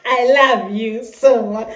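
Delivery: slowish Kenyan accent, "love" said "lav"; an easy Kenyan accent. Shown as a demonstration. Vlogger repeating the Kenyan way for her viewers. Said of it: "we say here".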